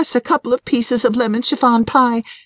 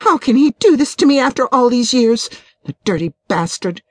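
indignant, high-pitched wife's outburst; temper flaring; 9 semitones higher than usual. A narrator's reading. Betrayed wife rants to her friend about her husband, temper flaring. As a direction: let the anger climb higher as the grievances pile up. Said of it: "Janet's temper flared".

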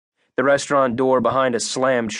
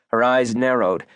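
ordinary delivery

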